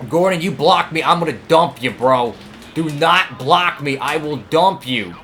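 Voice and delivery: loud, hard threat at a rival; angry warning. Real, not acted.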